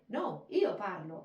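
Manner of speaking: loud, corrective stress on "io parlo"; emphatic Italian. Shown as a demonstration. Teacher corrects student, stressing "io parlo". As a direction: hit "io" and "parlo" firmly in Italian. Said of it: "We emphasize".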